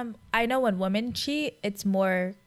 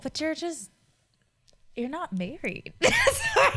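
laughing; 7 semitones higher than usual. Real, not acted. Bursts out laughing mid-point.

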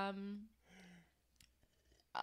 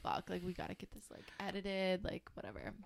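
muttering to herself; 13 dB quieter than usual. Retold or imitated. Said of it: "where I'm like".

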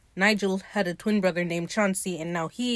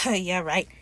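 scoff under breath; 3 dB quieter than usual. Retold or imitated. Imitating Ed brushing off Steed's compliment, scoff under the breath. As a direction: scoff it quietly to yourself. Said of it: "that little scoff he does under his breath".

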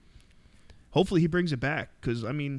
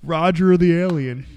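high, slow loud alien voice; 4 semitones higher, 8 dB louder, slower than usual. Pretend. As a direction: announce it like a cartoon alien. Naming alien voices, playing aliens.

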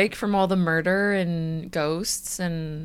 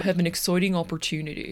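Elizabeth Holmes; faster than usual. Acted. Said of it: "in your regular voice".

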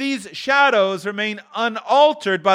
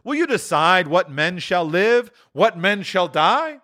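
higher, stern spirit voice; rebuking ghost; 10 semitones higher than usual. A narrator's reading. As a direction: scold Scrooge from above. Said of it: "before the ghost's rebuke".

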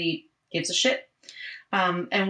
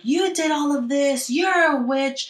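mock accusation; 3 semitones higher than usual. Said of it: "she's like".

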